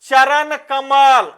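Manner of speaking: "चरण कमल" said very slowly, each word apart; slow dictation. Shown as a demonstration. Teacher to class, announcing the example slowly. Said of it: "पहला example देखिए".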